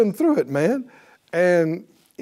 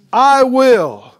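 fervent preaching; 7 semitones higher, 4 dB louder than usual. Real, not acted. Preaching at full force climax.

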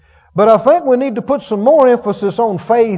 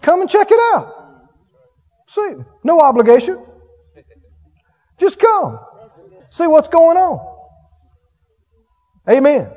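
eager invitation; 9 semitones higher, 5 dB louder than usual. Retold or imitated. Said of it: "I said".

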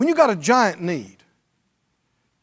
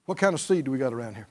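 musing to oneself; 8 semitones lower, 8 dB quieter, much faster than usual. Retold or imitated. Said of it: "look around and go".

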